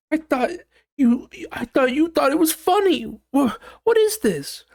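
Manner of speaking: high, whiny, confused partner voice; squeaky bewildered mock hurt. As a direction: play the stung partner who thought it was a joke. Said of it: "the partner would probably be like".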